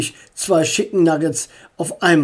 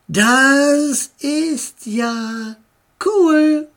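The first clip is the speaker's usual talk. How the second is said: excited; 8 semitones higher, much slower than usual. A narrator's reading. Sister delighted at the drive-in, excitedly. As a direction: stretch it out then burst on cool. Astrid thrilled about the drive-in.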